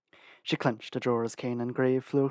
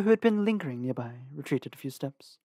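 usual speaking voice

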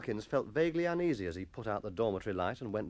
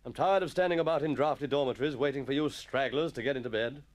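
lightly voiced weary, impatient teacher; a touch of exasperated master; grumbling schoolmaster; 3 semitones higher, 3 dB louder than usual.

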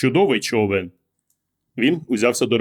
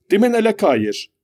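high-pitched, annoyed reproach; irritated exclamation; 9 semitones higher than usual. A narrator's reading. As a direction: scold him for the scare. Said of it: "роздратовано вигукнула вона". (роздратований докір високим голосом)

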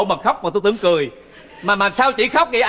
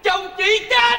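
stunned repeat; 3 dB louder, much slower than usual. Acted. Repeating shocking news.

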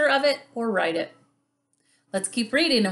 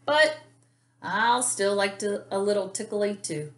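animated picture-book narration, stretched key words; lively, expressive storybook reading; reading to children. A narrator's reading. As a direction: read it like storytime for little kids.

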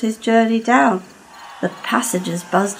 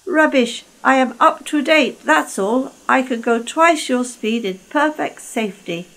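higher, scornful brag; boastful Lord Harry; 4 semitones higher than usual. Acted. Lord Harry brags to Caldy, higher and scornful. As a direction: dismiss him with swagger.

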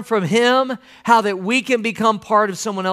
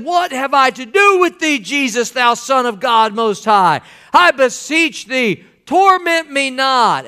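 raised pitch, slow, drawn-out plea; loud crying out; 4 semitones higher than usual. Acted. Demon-possessed man before Jesus, crying out loudly. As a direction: cry it out slowly, mildly loud. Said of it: "with a loud voice".

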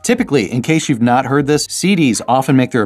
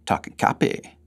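whispered; 7 dB quieter than usual. Acted. Playful repeated whisper bit.

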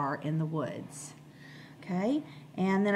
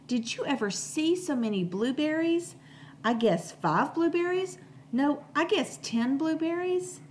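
put-on excited child; 8 semitones higher than usual. Benny excited about blueberries.

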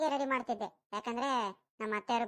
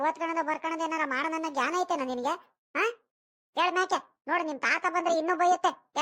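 higher-pitched grandmotherly telling-off; insistent, raised nagging; scolding; 3 semitones higher than usual. Acted. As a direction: lecture a child who won't listen. Grandmother lectures child to obey.

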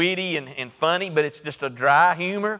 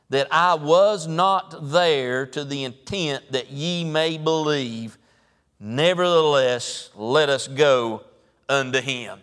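slow scripture reading; slower than usual. Acted. Reading the King James verse.

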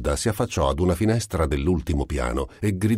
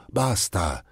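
shouted; 3 semitones higher than usual. Acted. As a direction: cry out to stop them.

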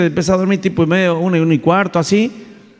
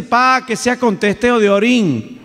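higher, slow request; daughter's casual request; 6 semitones higher, slower than usual. Retold or imitated. Daughter calling after her father, high and casual. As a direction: lightly voice the daughter asking a favour.

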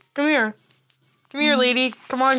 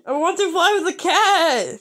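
laughing protest; 5 semitones higher than usual. Real, not acted. Player laughing while insisting on flying with the cat.

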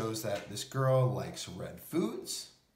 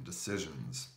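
thinking aloud; 7 semitones lower, 6 dB quieter than usual. Acted. Girl thinking to herself.

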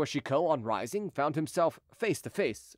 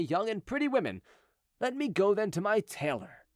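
lightly voiced, higher-pitched wry gentleman; Chicot, wryly reasoning; 4 semitones higher than usual. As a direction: argue your excuse with mock propriety. Chicot figure in story narration.

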